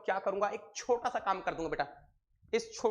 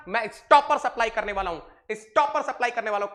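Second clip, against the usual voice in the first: emphatic; 6 dB louder, much faster than usual. Real, not acted. Teacher stresses key word.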